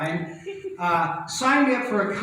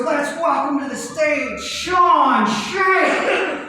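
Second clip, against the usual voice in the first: A DJ announcing=116; 8 semitones higher, 6 dB louder, much slower than usual. Retold or imitated. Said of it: "So he goes".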